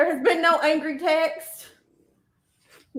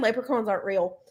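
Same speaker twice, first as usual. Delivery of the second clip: a touch of flat, lower deadpan; 4 semitones lower, 4 dB quieter than usual. Retold or imitated. Imitating the friend telling a child, mild deadpan. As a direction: state it dryly, no feeling at all. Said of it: "very deadpan".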